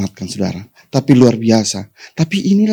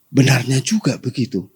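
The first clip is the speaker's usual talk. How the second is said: normal talking voice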